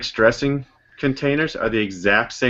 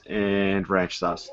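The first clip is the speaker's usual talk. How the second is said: slow drawn-out; 3 semitones lower, 7 dB quieter, much slower than usual. Shown as a demonstration. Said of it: "to make sure I'm not a liar to Daniel".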